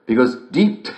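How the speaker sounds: slow, rising into giggles; laughing punchline. Acted. Host giggling out the punchline to listeners. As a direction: savour the punchline through laughter.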